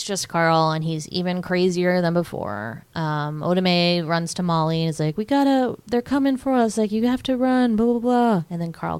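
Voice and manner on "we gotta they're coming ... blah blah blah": higher, louder, hurried mock panic; frantic warning. Oda Mae warning Molly to flee, frantic. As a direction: play Oda Mae urgently telling Molly to run.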